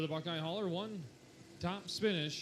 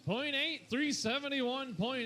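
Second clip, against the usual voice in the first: excited call; 6 semitones higher, slower than usual. Real, not acted. Announcing a winning distance.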